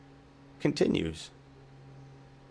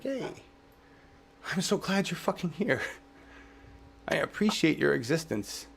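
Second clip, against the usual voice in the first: tender thanks to bugs; 3 semitones higher, 4 dB quieter than usual. Retold or imitated. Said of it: "talk like that all the time".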